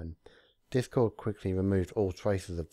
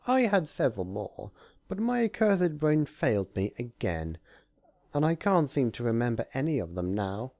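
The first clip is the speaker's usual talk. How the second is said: higher, louder grumbling; grumbling Discord; 6 semitones higher, 3 dB louder than usual. Acted. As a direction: grumble at his own brain. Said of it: "before grumbling".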